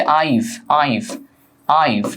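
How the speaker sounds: I've as one syllable, "aiv"; contracted form. Shown as a demonstration. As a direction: merge I and have into a single I've. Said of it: "এটার উচ্চারণ হচ্ছে".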